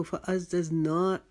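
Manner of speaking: फ़अज़्ज़ज़ना with an overstretched "naa"; wrong-way demo, drag the end of फ़अज़्ज़ज़ना; overlong ending demo. Shown as a demonstration. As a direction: exaggerate the last vowel of फ़अज़्ज़ज़ना. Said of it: "नहीं पढ़ना".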